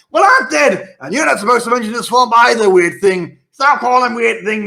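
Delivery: high, loud squabbling imp voices; bickering imps. Acted. The GM plays imps bickering about the swamp, high and loud. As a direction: snipe at each other like petty imps.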